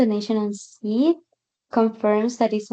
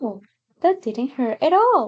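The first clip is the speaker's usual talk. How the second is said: put-on, lightly surprised, caught off guard; 3 semitones higher than usual. Acting out what a lady she heard seemed to feel, imitating a surprised tone. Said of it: "Like she was surprised".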